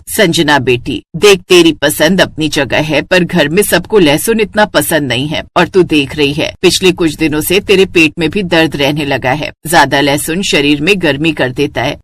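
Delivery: counselling mother-in-law. Acted. Mother-in-law cautioning the bride about garlic, patient counsel. सास उसे समझाते हुए कहती है.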